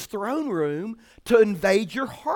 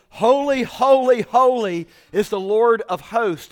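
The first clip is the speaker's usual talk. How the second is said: loud praise; 5 dB louder than usual. Retold or imitated. Seraphim praising God in the throne room, loud. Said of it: "they're talking loud because they're saying".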